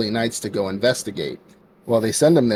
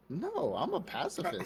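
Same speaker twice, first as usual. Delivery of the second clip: a laughing, ironic "I'm a pacifist"; 9 semitones higher, 13 dB quieter than usual. Retold or imitated. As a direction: say "I'm a pacifist" with a sly laugh, not believing it. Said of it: "she was like".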